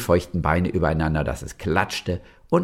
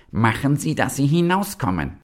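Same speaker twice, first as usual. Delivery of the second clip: pitched-up storybook yell; angry shout; 8 semitones higher than usual. A narrator's reading. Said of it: "schrie der Giftpilz".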